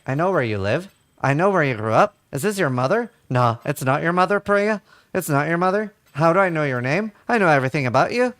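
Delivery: lightly imitated Northern Irish accent. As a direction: confront a scammer with a hint of Northern Irish. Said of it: "he's a Northern Irish accent".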